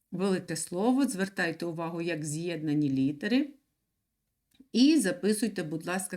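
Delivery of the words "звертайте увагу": usual speaking voice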